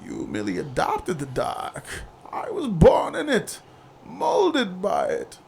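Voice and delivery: slow, menacing villain delivery; Bane quote. Retold or imitated. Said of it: "don't talk quotes to me".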